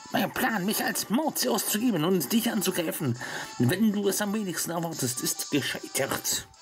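high, defeated villain fading out. Acted. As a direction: lament a failed scheme. Reading villain's defeat line.

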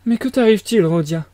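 startled, rising question; astonished. A narrator's reading. Mother, astonished, questions her son Rodia. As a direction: ask it taken aback. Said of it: "étonnée à son tour".

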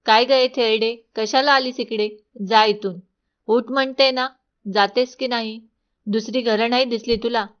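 put-on mild angry yell at the old woman; lightly voiced queen driving a beggar away; queen shouting. Queen yells at the old woman to get out, angrily. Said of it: "राणी ओरडली".

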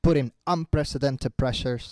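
slow, measured shadowing repetition; imitating the video speaker. Shown as a demonstration. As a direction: echo the speaker softly and slowly. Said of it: "tienes que imitar lo que él hace". (imitando al orador, lento y suave)

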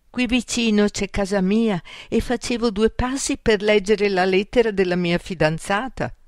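a hint of a high creature voice; Amedeo's mole voice. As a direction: explain yourself as a little mole character. Mole explains himself in his voice.

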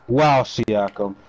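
slow, drawn-out amazement; slow amazed drawl. Acted. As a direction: stretch out the wow slowly. Same words repeated, drawn out.

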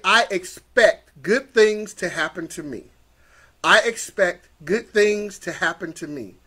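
slow, deliberate affirmation; measured, assured declaration; leading affirmations. Shown as a demonstration. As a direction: say it slowly so they can repeat it. Leads affirmations for repeating.

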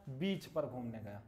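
बीच drawn out with a long ee, slow; long vowel beach. Shown as a demonstration. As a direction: hold the ee in बीच. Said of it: "थोड़ा long sound हुआ ना". (बीच में लंबी ई, धीरे)

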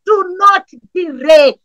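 crying shout, drawn out and urgent; pleading cry. Real, not acted. Pastor begging God in prayer, crying shout. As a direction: beg God not to wait.

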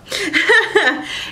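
quick high giggle. Real, not acted. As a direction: giggle lightly at herself. Laughs at own indecision.

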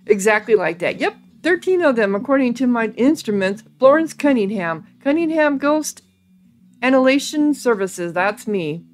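animated, matter-of-fact character patter; lightly voiced chipper ghost hunter. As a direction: lightly play a self-promoting exterminator.

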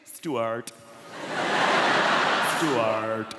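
high, loud, drawn-out introductions; gushing party host. Pretend. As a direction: gush over every guest like an over-excited hostess. Acted party of same names.

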